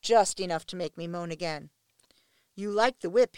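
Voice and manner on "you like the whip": taunting. A narrator's reading. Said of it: "more to himself than me".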